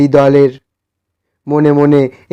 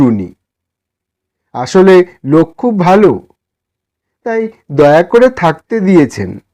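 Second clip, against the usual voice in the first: raised, pleading voice of a humble poor man; timid poor man; 4 semitones higher than usual. Acted. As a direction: ask shyly for a favour, a bit higher. Same humble man answers. (বিনীত গরিব মানুষের কুণ্ঠিত অনুরোধ)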